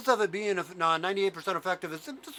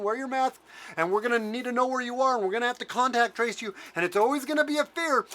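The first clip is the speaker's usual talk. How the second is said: lightly voiced smug official, a little higher; mocking Fauci; 3 semitones higher than usual. Ranter mimicking Fauci reassuring the public, mild mock smugness. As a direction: play the slippery official brushing it off. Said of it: "and we can say".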